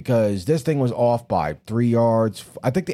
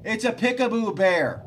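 imitating Joe; 9 semitones higher than usual. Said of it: "you hear Joe from the background".

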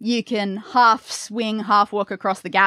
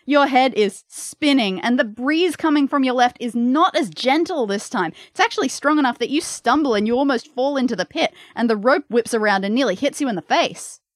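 game master narration; 3 semitones higher than usual. Acted.

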